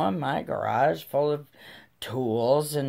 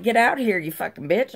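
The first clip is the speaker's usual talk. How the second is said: raised, high retold yell; angry challenge; 8 semitones higher, 4 dB louder, faster than usual. Mom kicking the neighbor's door, yelling furiously. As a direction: holler for her to come out, furious.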